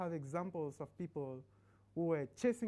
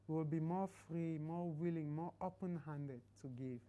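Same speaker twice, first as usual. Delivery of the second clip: closing prayer. Acted.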